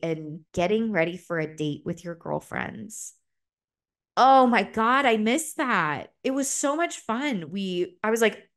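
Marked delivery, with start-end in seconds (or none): 4.2-7.5 higher and louder, gushing; excited gush. Real, not acted. Remembering date prep with girlfriends, excited gush. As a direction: burst out with glee at the memory. Excited memory of getting ready.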